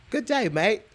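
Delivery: put-on Australian greeting, slightly high; lightly mimicked Aussie accent. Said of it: "Australian, Australia, yeah".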